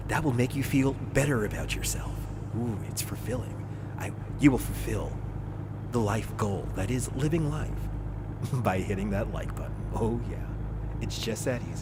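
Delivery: lightly hammed radio promo. Shown as a demonstration. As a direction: keep up a smooth radio pitch. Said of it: "using my radio voice".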